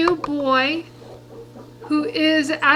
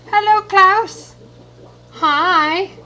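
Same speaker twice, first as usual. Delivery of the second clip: excited hello; 5 semitones higher, 5 dB louder, much slower than usual. Real, not acted. Greeting fish Klaus.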